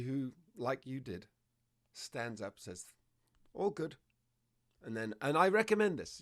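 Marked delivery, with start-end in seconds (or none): 3.5-3.9 light, higher-pitched reassurance; gentle voice. Shown as a demonstration. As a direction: gently let the dog know all is fine. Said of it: "in a gentle voice".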